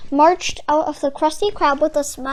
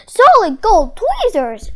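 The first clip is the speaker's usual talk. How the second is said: higher, louder amazed exclamation; amazed shout; 6 semitones higher, 7 dB louder than usual. Acted. Phil seeing the gold tweezers, amazed shout. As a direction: shout it in wonder. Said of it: "shouted Phil".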